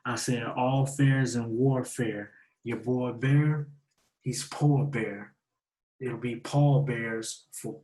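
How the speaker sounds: slowed-down repeat of the bars, each word laid out; deliberate slow recital; slow and clear. Shown as a demonstration. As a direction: spell the bars out slowly so they land. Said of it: "so you catch it clear".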